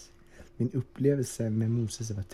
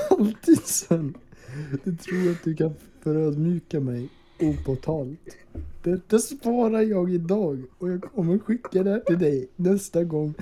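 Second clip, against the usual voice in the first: raised, louder mock-furious rant at Sven; hammed-up drunken rage; 5 semitones higher, 3 dB louder than usual. Drunk podcaster reenacting his chat rant, hammed-up fury. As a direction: play the raging drunk threatening his friend, pitched up and loud. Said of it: "Du var ursinnig när du startade samtalet".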